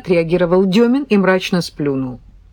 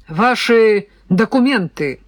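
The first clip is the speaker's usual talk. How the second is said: stern; 3 semitones higher than usual. Acted. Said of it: "грозно сдвинул брови Костин".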